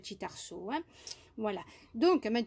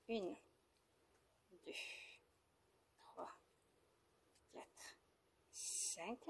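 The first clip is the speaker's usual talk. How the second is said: soft whispered counting, much softer; murmured stitch count, much softer; counting under breath; 3 semitones lower, 18 dB quieter, slower than usual. Real, not acted. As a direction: whisper the count to yourself while working.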